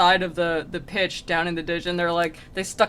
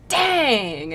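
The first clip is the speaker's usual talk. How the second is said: drawn-out, higher exclamation; mock frustration; 4 semitones higher, 4 dB louder than usual. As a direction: let out a cartoon groan of defeat. Acted demon missing his catch.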